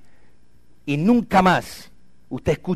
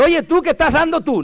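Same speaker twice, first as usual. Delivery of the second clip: much higher, louder hammed-up quizzing voice; mock question; 13 semitones higher, 4 dB louder than usual. Preacher mocking a question he never put to the man, high and hammed-up. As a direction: play the nosy question he never asked. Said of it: "No le pregunté".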